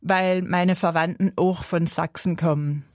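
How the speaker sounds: lightly put-on Saxon accent; Saxon dialect. Shown as a demonstration. Interviewee showing her relatives' dialect, light Saxon accent. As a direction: slip into Saxon dialect, taking your time. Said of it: "immer den sächsischen Dialekt sehr gern".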